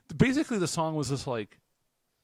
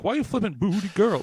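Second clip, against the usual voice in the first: indignant yell at a driver; playful road-rage yell; mock outrage; 8 semitones higher, 5 dB louder than usual. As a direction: shout at the car ahead, half joking. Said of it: "I was like".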